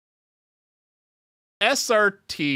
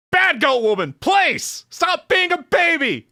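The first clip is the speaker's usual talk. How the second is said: higher, louder telling-off; scolding shout; 13 semitones higher, 6 dB louder than usual. Acted. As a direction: scold her like a brat. Scolding the goat lady character.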